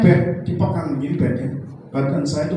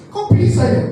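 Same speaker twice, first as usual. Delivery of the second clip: high, loud astonished question; retold disbelief, higher and louder; surprised; 6 dB louder than usual. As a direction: act out the devil's shock. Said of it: "Dia kaget lagi".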